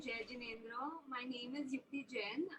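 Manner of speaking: faint, hesitant introduction; speaking too softly, barely reaching the mic; barely audible. Real, not acted. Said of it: "your voice is very faint".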